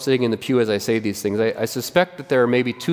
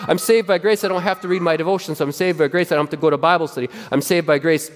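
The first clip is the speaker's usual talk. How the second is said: mock excuses; 3 semitones higher than usual. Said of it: "let the gospel make excuses".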